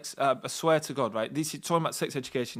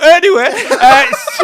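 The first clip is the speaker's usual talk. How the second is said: much higher and louder, dissolving into laughter; cracking up; 17 dB louder, much slower than usual. Real, not acted. Trying to continue the story while cracking up, high and loud. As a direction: try to move on but lose it laughing.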